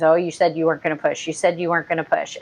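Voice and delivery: fast, mocking singsong imitation; lightly mocked defensive whine; mocking repeat. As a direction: rattle it off like a sulky complaint. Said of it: "that comes up a couple more times".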